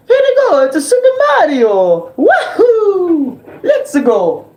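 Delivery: very high, squeaky laughing Mario. Retold or imitated. Mario cheering Luigi in a very high squeaky voice. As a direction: bounce through it like an excited Mario. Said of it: "that's my Mario voice".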